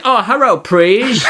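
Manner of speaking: a hint of a South Park style stereotype accent; mock stereotyped accent. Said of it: "like a South Park thing".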